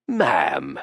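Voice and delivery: low rumbling ma'am, drawn out; a big man's low rumble; curious rumbling voice. A narrator's reading. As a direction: rumble it deep in the chest. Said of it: "in a curious rumbling voice".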